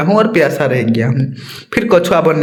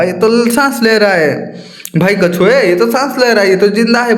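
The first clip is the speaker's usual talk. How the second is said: mild hammed-up shout, pitched up; raised voice; 3 semitones higher than usual. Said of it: "ऊंचे स्वर में मतलब चिल्ला के".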